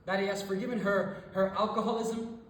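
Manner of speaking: insistent, building recital; impassioned litany. Acted. Impassioned list of things forgiven.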